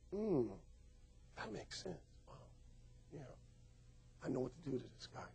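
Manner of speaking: imitating a lady. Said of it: "this lady looking at me like".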